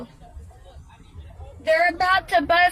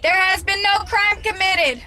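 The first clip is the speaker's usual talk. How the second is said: raised voice. Real, not acted. Man repeats his rights to officers.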